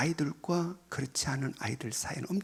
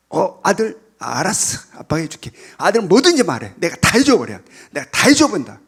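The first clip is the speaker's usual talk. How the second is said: doting parent; 12 dB louder than usual. Retold or imitated. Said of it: "라고 탁 했다가".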